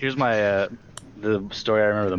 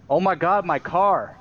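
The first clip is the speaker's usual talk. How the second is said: higher, mock-dismayed gasp over the car; imitating a lady more worried about her car; horrified driver; 9 semitones higher, slower than usual. Driver's reaction after hitting him.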